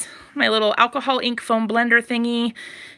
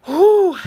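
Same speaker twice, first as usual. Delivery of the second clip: loud, breathy sigh of relief, higher; breathless whew; 9 semitones higher, 6 dB louder than usual. Real, not acted. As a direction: blow out a tired whew. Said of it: "Let me just take a second".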